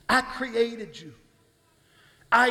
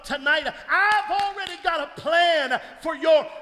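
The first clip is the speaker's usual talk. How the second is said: the Lord speaking; 4 semitones higher than usual. Acted. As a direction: proclaim it, building to a shout. Preacher voicing the Lord speaking.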